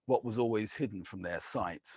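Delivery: measured, deliberate poetry reading; poem reading. Acted. Poet reading to a live audience, measured and deliberate. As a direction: let each image land with weighted pauses.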